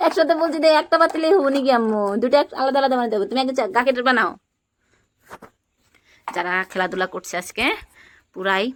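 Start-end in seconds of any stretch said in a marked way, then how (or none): 0.1-4.3 put-on high, bright play voice for a small child; playful toddler-talk. Mother playing house with her toddler, high coaxing voice. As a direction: coax the little one along in pretend play. Pretend cooking with toddler, laughing.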